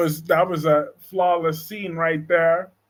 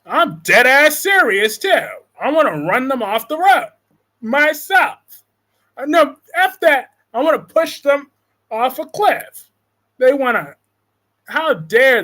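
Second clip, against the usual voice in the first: heated and louder, pitch pushed up; worked-up rant, louder and higher; real anger; 4 semitones higher, 3 dB louder than usual. Real, not acted. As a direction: vent real outrage at whoever hurt your friend. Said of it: "and I'm mad right now".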